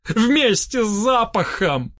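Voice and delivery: high, drawn-out urgent calls; crying out. A narrator's reading. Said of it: "вскричал я". (крик вдогонку высоким голосом)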